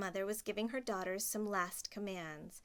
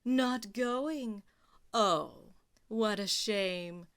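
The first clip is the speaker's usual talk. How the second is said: mocking; 5 dB louder, much slower than usual. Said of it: "with her mocking smile".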